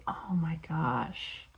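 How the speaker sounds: slow breathless whisper of awe; hushed, stunned whisper; awed whisper. Real, not acted. Seeing the main item.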